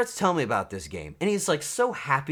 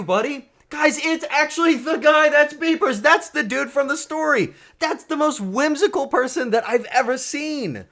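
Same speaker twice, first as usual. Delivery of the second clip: much higher and louder, gasping with delight; excited shouting; 9 dB louder than usual. Real, not acted. Greeting the stranger from his story, ecstatic shouting. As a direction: erupt with joy at a friend's arrival. Viewer he just talked about appears.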